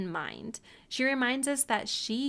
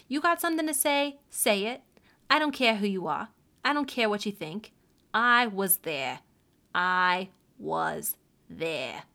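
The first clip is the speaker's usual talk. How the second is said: put-on louder tough New York City accent; 5 dB louder than usual. Tom defying the doubters in a loud New York City accent. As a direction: play a defiant New York tough guy. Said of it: "I'm gonna break out my New York City accent".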